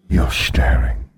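deep, slow, masculine voice of Death; grim reaper voice. A narrator's reading. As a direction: speak low and slow as Death. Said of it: "his voice was masculine, deep".

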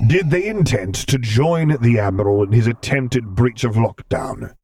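sharp, commanding demand; sharp question. Acted. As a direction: ask it sharply, like an interrogator. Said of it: "he asked sharply".

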